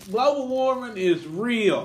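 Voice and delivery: mama's voice. Retold or imitated. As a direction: draw it out like mama making her point. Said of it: "my mama was talking about that".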